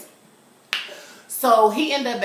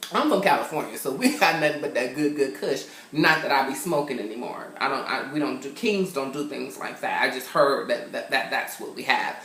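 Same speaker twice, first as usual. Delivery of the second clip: mock haughty aside; 5 semitones lower than usual. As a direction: lower mock-posh aside, a king above it. Mock royal kush aside.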